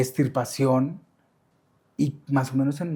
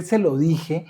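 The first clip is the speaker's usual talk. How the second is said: se lo dije said louder and pointed, like "entérate"; defiant telling; 3 semitones higher, 5 dB louder, much slower than usual. Shown as a demonstration. Explaining what he meant to his mother, defiant. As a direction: throw se lo dije out as a challenge. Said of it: "era más un como, "Entérate".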